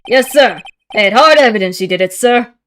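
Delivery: loud, eager detective voice; Gumshoe voice. Acted. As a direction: bark it out like an eager rookie cop. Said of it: "my gumshoe impression".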